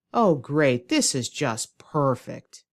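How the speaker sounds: slow, fed-up sarcasm; sarcastic. Shown as a demonstration. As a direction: praise it while clearly annoyed. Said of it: "So that's sarcasm".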